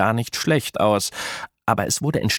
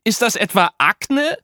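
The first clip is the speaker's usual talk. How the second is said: high, louder panicked question; horrified disbelief; 13 semitones higher, 3 dB louder than usual. A narrator's reading. Apollo discovering acne in the shop window, panicked. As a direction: stammer it out, appalled.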